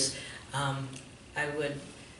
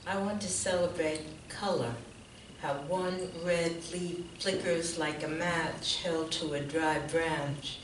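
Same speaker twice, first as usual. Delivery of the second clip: measured recital, each line falling softly away; poetry reading; 4 dB quieter than usual. Real, not acted. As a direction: recite it as a quiet invocation, pausing between lines. Reads autumn poem aloud.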